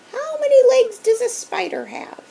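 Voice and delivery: high, loud strict teacher; a strict teacher turned monster. A narrator's reading. Teacher figure in story.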